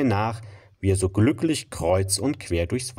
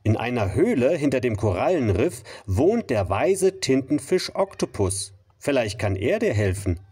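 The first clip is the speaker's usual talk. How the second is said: starfish voice; 4 semitones higher than usual. Acted. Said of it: "riet ihm der Seestern".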